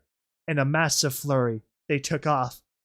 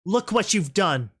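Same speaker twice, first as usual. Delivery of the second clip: raised, angry reproach; growled accusation; 5 semitones higher, 3 dB louder than usual. Acted. Rainbow Dash pressing the rebel to the wall, growling. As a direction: blame them with a growl. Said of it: "she growled".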